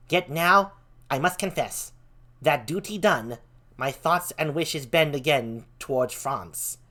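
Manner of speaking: lightly put-on squeaky young courtier; a hint of squeak, politely formal; Laertes, squeaky voice. Laertes asking the king's leave for France, lightly squeaky. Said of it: "do the squeaky voice for Laertes".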